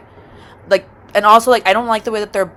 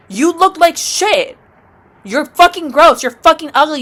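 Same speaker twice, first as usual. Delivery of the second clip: disgusted insults; 5 semitones higher than usual. Acted. Insults roaches directly.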